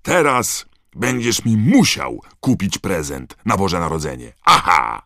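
loud, high, triumphant excitement; gleeful yelling. A narrator's reading. Ron repaying Harry for the omnioculars, gleeful yelling. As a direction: crow happily at your friend. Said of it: "wrzasnął uradowany Ron".

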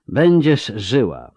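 slow, grave and matter-of-fact; matter-of-fact, stern. Acted. Tissaia tells the wounded Yennefer she will live, stern and slow. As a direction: state it as plain fact, sternly. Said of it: "Głos Tisai był rzeczowy, poważny, surowy".

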